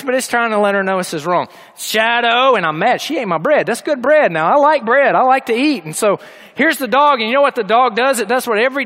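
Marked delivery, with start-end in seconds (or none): 1.8-2.5 firm scolding of the dog by name; stern voice. Retold or imitated. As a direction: let her know this is wrong. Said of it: "it's a stern voice".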